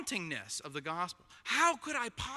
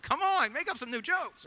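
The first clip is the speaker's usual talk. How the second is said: mock congregation complaint; 8 semitones higher, 3 dB louder than usual. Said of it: "you know, like".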